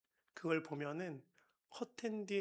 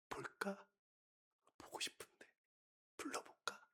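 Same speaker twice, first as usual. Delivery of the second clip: whispered longing; 3 semitones higher, 10 dB quieter than usual. Retold or imitated. Father longing to call his son.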